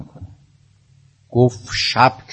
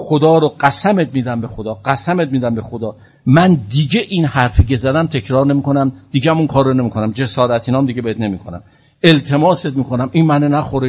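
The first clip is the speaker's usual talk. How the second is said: loud, rushed begging in panic; frantic pleading; 4 semitones higher, 5 dB louder than usual. Retold or imitated. Caliph begging the Imam to call off the snake. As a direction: beg for your life, tumbling over the words. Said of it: "فریاد زد".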